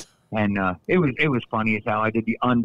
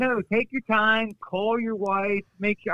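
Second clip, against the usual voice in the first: slow imitated boss; 10 semitones higher, slower than usual. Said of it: "he goes".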